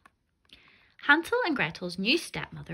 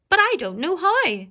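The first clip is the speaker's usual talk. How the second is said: put-on high, louder pleading girl; pleading child; 9 semitones higher, 8 dB louder than usual. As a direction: protest in a small panic. Frightened Gretel protests.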